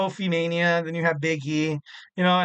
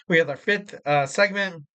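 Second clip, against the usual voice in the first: hiccups. Real, not acted. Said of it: "got the hiccups".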